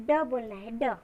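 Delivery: ड की ध्वनि; phonic sound. Shown as a demonstration. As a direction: say just ड, short. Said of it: "डी नहीं बोलना है".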